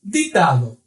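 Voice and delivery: "Ditado" opening with a clean "di", no "dji"; Spanish D before I. Shown as a demonstration. Teacher giving a Spanish example, clean "di" sound. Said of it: "não terá som como no português".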